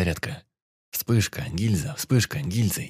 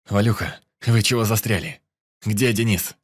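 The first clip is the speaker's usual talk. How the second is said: loud, urgent calling; urgent shout; 2 semitones higher, 5 dB louder than usual. Acted. Urgent call during retreat.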